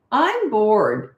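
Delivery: put-on bratty, complaining kid's "I'm bored"; snotty. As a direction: toss off "I'm bored" like a sulky child. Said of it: "in that snotty tone".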